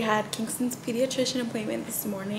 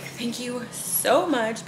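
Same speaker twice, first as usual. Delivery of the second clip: grateful thanks; 3 semitones higher, 6 dB louder, much slower than usual. Retold or imitated. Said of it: "I was like".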